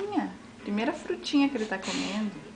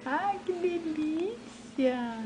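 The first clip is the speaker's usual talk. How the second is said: slow, drawn-out cooing; 4 semitones higher, 4 dB quieter, much slower than usual. Real, not acted. Slow cooing while feeding.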